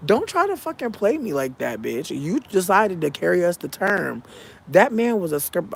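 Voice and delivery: high-pitched, emphatic telling-off; retold indignant scolding. Daughter challenging her mother about her father, indignant scolding. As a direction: retell it as a heated rebuke.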